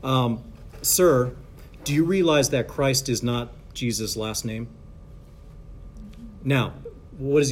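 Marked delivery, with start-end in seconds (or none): 0.8-4.7 measured, restrained correction; imitated calm, polite challenge; calm retort. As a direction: bite your tongue and ask calmly. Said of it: "he just says very calmly".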